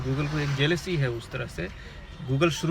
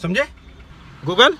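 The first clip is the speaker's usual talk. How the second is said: louder scolding call to the dog; raised, rebuking call; 3 semitones higher, 6 dB louder, slower than usual. Real, not acted. Calling out to the dog.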